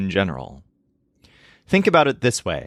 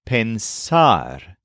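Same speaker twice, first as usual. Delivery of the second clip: pensar with the second syllable stressed; careful teacher's demo of final stress in pensar; stress after pens. Shown as a demonstration. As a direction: lean on the end of pensar, pen-SAR. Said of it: "the part after pens is accented".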